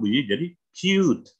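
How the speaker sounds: "cute" said with a long yoo sound. Shown as a demonstration. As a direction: glide the vowel in "cute". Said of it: "kalau kasih magic E". (ucapkan "cute" dengan u panjang)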